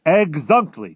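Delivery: high, loud agreement; giant's cry. Acted. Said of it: "cried the B F G".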